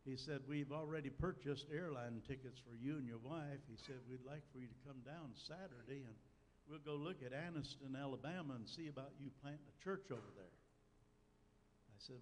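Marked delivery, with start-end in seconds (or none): 0.5-3.6 lightly imitated Southern accent; a hint of an Alabama Southern accent; Fred Vines. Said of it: "in his southern accent". 4.1-10.5 lightly imitated Southern accent; a hint of an Alabama Southern accent; Fred Vines. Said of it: "in his southern accent".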